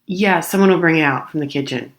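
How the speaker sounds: curt dismissive counter worker; imitating a dismissive server; brusque brush-off. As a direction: cut the customer off. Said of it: "Kinda cut me off".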